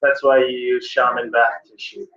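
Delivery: uppity mock-British put-down; condescending British. Teacher demonstrating talking down to readers, fake British accent. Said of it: "it's talking down. That's what condescending is".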